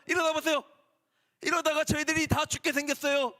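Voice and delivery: high, urgent pleading to wake him; panicked disciples. Acted. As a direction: beg him to wake up, frightened. Disciples panicking waking Jesus. (다급하게 깨우는 제자들 목소리)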